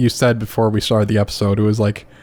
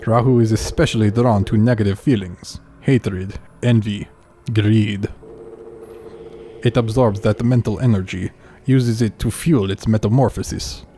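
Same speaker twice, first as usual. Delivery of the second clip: lightly put-on Russian accent; a game character in a Russian accent. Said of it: "rate my, uh, Russian accent".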